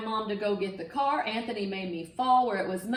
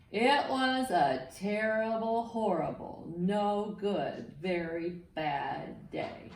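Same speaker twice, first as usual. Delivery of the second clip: refrain read aloud; 2 semitones lower, slower than usual. Shown as a demonstration. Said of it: "Can you say that with me?".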